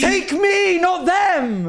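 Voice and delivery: high hammed-up begging; mock pleading. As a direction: plead with the producers over the top. Begging producers to send them.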